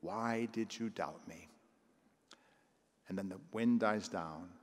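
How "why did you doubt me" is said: gentle rebuke. Acted. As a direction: tenderly ask why he doubted. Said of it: "and gently says".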